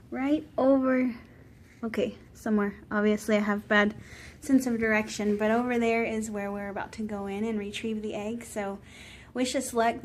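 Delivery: a hushed check-in so nobody nearby is disturbed. Real, not acted. To friends online from a hospital hallway, hushed.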